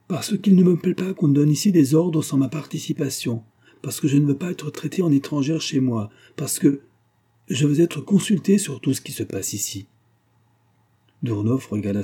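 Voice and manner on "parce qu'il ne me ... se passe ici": high, loud, rising indignation; indignant outburst. A narrator's reading. Wife protesting to her husband about orders, indignantly. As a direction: insist on her rights, indignant.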